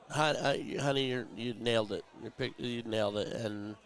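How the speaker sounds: fighting not to cry; holding back tears. Real, not acted. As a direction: voice tight with tears. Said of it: "not gonna cry".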